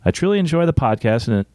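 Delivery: measured read-aloud with lilting emphasis; podcast host reading out listener mail; reading a letter aloud. Acted. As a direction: read it out deliberately, pausing between phrases.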